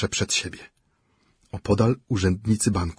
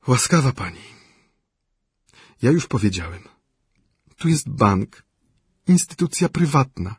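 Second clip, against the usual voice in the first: exasperated director; 6 semitones higher, 5 dB louder than usual. A narrator's reading. Kistunow voiced by reader.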